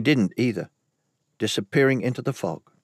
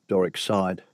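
ordinary delivery

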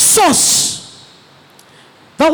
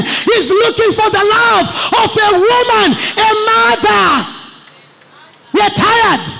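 fiery preaching; 3 semitones higher than usual. Acted. Preacher crying out to the men for fathers, full force. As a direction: preach it hard to the congregation.

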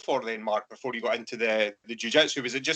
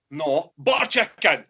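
slow correction; 4 semitones higher, 6 dB louder, slower than usual. Retold or imitated. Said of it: "I was like".

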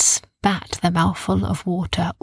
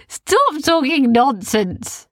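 put-on scoffing boy; 6 semitones higher, slower than usual. Kai laughing, dismissing.

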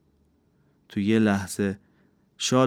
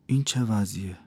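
cold. Acted. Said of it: "با لحنی سرد پرسید".

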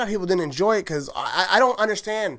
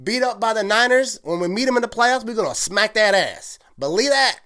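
brash and loud at first, much higher, then settling; cocky fan; 6 semitones higher, 4 dB louder than usual. Pretend. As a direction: brush off the doubters with swagger. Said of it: "that's how I present myself".

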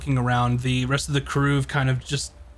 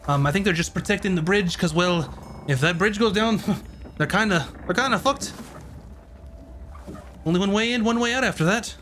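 lightly voiced, higher-pitched chatty local; 6 semitones higher than usual. Filling travellers in on the bridge, lightly voiced and chatty. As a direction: play a talkative local, pitched a little up. Game master plays chatty informant.

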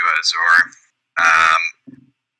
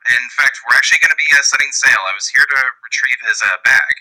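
lightly acted captain, pitched up; hesitant, higher in-character bluff; 6 semitones higher than usual. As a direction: improvise a cover story in a higher voice. Player speaks as Captain on cover story.

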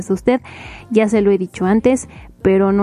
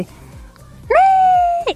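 high squeal. Retold or imitated. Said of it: "fue así como de".

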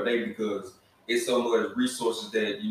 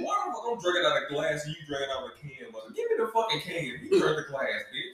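mock indignant rant; 2 semitones higher than usual. Acted quarrel over drinks.

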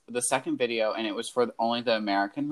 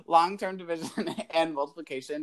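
laughing; 4 semitones higher than usual. Real, not acted. Laughing at her own mistake.

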